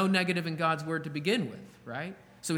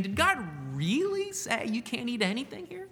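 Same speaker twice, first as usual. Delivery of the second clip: a hint of a sly, insinuating serpent; lightly voiced tempting snake; mild sneering serpent; 4 semitones higher than usual. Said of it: "The intonation of his voice as he is saying".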